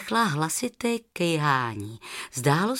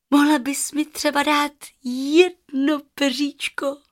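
put-on higher childlike asking voice; little girl; 7 semitones higher, 4 dB louder than usual. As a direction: ask sweetly for a feather. Rozárka asks the goose. (prosebně jako malá holka)

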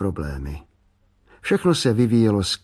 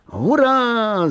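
high, loud cheer; boy cheering after hitting the can, shouted high; shout of joy; 12 semitones higher, 3 dB louder than usual. A narrator's reading. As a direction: yell it out in triumph. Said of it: "zakřičel tak".

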